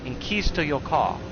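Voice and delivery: put-on light broken-English accent of an old martial arts master, clipped grammar; hint of a wise old master's foreign accent; mock old master's accent. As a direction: lightly imitate the old teacher's accent, calm and solemn. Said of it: "we can actually do the accent of how this story goes".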